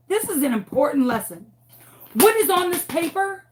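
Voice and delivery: stern teacher lecture. Retold or imitated. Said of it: "So I'm like".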